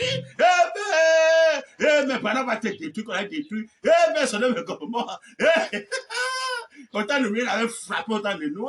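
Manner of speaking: ordinary delivery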